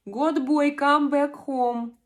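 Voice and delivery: calling out. Real, not acted. Streamer calls out to absent viewer.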